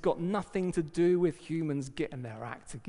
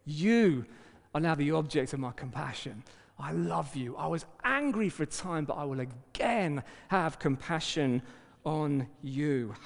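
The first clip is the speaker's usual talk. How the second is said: God speaking tenderly; 2 semitones lower than usual. Acted. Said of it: "he's persuading you again".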